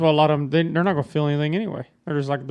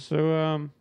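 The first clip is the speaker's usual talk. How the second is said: laughing invitation. Retold or imitated. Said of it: "She goes".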